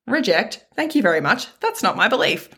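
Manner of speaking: high, laughing, breezy brush-off; giggly no-thank-you to the inner critic; laughing rejection. Pretend. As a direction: laugh the thought away and turn it down. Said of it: "you can go".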